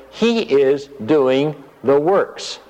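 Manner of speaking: slow, weighting doing the works; slow emphatic line. Shown as a demonstration. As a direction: land it slowly and firmly. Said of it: "we would expect him to say here".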